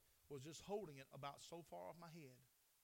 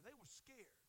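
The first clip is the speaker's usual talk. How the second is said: hushed; 5 semitones higher, 7 dB quieter, slower than usual. Shown as a demonstration. Preacher to congregation, sudden hushed voice. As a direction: let it fall quiet, letting fear sink in. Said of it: "They cried out for fear".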